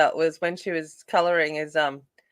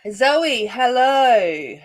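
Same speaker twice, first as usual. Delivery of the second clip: loud, high hello; excited greeting; 6 semitones higher, 6 dB louder, much slower than usual. Real, not acted. Streamer greeting a viewer who joins, loud high hello. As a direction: call the name out loud and high.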